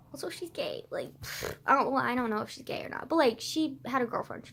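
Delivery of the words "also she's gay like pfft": soft conspiratorial whisper; whispered reveal. Real, not acted. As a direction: let slip the secret in a whisper.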